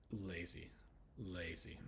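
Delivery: "lazy" ending in a clear ee. Shown as a demonstration. Teacher showing final Y as E, careful demonstration. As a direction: say "lazy" carefully, pausing between repeats. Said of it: "the Y has an E sound".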